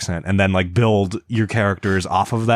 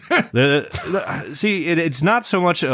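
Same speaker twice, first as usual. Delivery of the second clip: laughing; 8 semitones higher than usual. Real, not acted. Laughing while reading comment.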